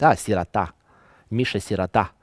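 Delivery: sirota read the Russian way, stress on the final TA; Russian-style "sirota" with a clear A and stressed last syllable. Acted. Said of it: "we need to read it".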